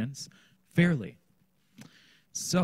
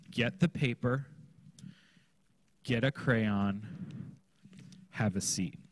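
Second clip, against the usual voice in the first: clear simple instruction. Shown as a demonstration. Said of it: "it will look like this".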